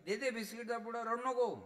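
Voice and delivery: high, loud mother promising money; loud motherly "don't cry"; mother soothing. Retold or imitated. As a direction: hush the child like a mother. Mother voiced in story.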